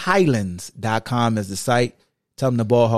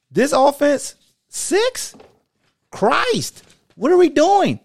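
exasperated; 11 semitones higher, slower than usual. Real, not acted. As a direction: vent at the offense. Ranting at his team's offense.

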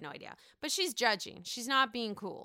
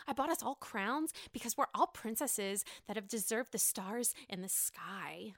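a hint of Ramona's dreamy voice; quoting Ramona; 5 dB quieter than usual. Host lightly imitates Ramona handing out crowns. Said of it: "She says".

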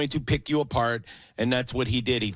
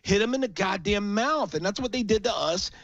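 heated rant, pitched higher, building to a shout; real anger; 7 semitones higher than usual. Real, not acted. Fed-up fan ranting to his co-host about the defense, real heated anger. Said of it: "I'm so mad".

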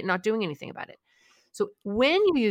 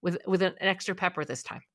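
smug anxiety; faster than usual. Pretend. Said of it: "your anxiety goes".

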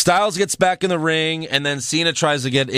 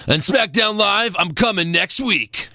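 higher-pitched mock wrestler promo; Kurt Hawkins; 6 semitones higher than usual. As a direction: lightly imitate a wrestler announcing himself. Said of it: "And then Hawkins says".

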